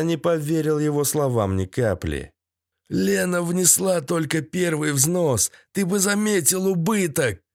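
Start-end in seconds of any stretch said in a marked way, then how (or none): 2.9-7.4 high, strained explanation; higher voice of a tied-up trader; captive's character voice. A narrator's reading. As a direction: plead the case in a raised voice. Captive explains under torture.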